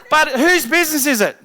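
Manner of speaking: high, loud call-and-response question; rallying call. Shown as a demonstration. Coach calling out to the audience, loud and high. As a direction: fire it at the crowd. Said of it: "say it now out loud".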